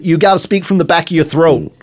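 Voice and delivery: throaty American accent. Shown as a demonstration. Host reciting his warm-up phrase, American accent. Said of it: "That's a great accent you got there".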